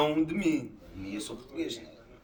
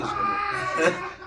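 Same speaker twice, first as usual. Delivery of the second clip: sudden high shout of "cara"; 3 dB louder than usual. Real, not acted. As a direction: throw "cara" out loud and high. Exclaims being Portuguese. (grito agudo e alto)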